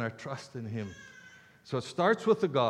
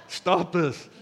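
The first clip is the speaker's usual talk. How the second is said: laughing mock scolding; 4 semitones higher, 4 dB louder than usual. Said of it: "It's like".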